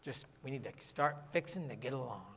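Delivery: low, soft, tongue-in-cheek; sarcastic. Real, not acted. Preacher borrowing Southern "fixing to" for the congregation, dryly sarcastic. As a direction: drop it in quietly with dry sarcasm. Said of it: "I said that sarcastically".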